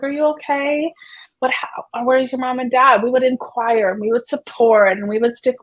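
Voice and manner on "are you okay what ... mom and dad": crouch down and ask kindly, higher than usual; gentle higher voice. Shown as a demonstration. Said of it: "use a higher pitched tone and lower our voice".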